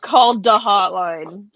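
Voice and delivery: slow, drawn-out joke catchphrase; mock hotline call. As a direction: say it slowly like a running gag. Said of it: "running joke of our group chats".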